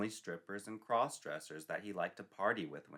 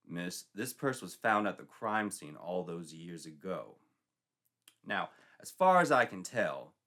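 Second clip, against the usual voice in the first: measured, deliberate interrogation; firm sergeant; 2 semitones lower, 4 dB louder than usual. Acted. Sergeant confronts Sandy, firm and deliberate. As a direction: press her slowly, word by word.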